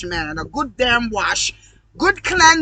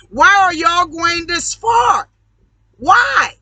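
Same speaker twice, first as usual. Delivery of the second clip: raised, slow, disbelieving yell; exasperated shout; 4 semitones higher, 3 dB louder, slower than usual. Real, not acted. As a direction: demand an answer, voice rising. Ranting at his audience.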